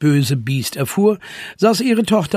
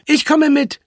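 firm, higher-pitched declaration; 12 semitones higher, 4 dB louder than usual. A narrator's reading. Zwolle joins the rescue, speaking firmly. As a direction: state it with resolve. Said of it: "sagte Zwolle fest".

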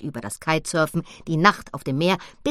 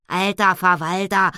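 loud exclamation; called out; 2 semitones higher, 6 dB louder than usual. Acted. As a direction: blurt it out impatiently. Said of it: "rief Annabella". (lauter Ausruf)

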